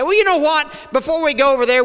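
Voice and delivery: mock the overcautious committee type; cautious churchgoer. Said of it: "They didn't say".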